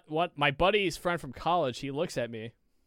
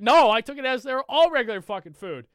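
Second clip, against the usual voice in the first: high, loud objection; retold alarmed protest; 9 semitones higher, 8 dB louder than usual. Telling friend he thought it was food, alarmed. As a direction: re-enact a disbelieving denial. Retelling his panicked objection.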